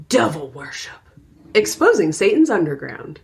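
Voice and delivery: lightly voiced cheery TV announcer; retro digitized stadium announcer. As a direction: announce it like a hyped show title. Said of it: "this is how the announcer on the show announces".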